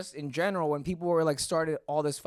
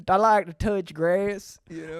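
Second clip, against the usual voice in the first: put-on Southern accent. Guest joins the Southern bit.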